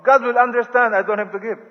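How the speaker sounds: hammed-up "I'm so poor" excuse; mock poor believer's excuse. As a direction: play the self-pitying poor giver. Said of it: "Their thinking is".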